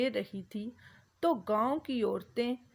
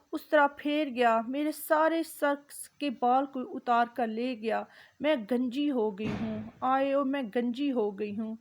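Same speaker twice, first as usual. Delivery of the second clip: a touch of hurried crying lament, lightly voiced; wailing neighbor woman. Neighbor woman wails to the street at night, mild hurried crying. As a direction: wail over lost hair, hurried and mildly tearful. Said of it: "ایک عورت، آ، رو رہی ہوتی ہے".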